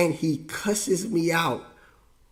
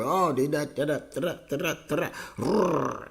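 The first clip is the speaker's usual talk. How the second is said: mimicked rant; 4 dB quieter than usual. Imitates dad's angry rant without words.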